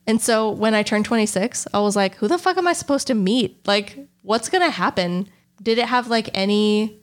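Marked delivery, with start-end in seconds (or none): 2.2-5.3 exasperated. Retold or imitated. Retelling exasperation at turning twenty-six.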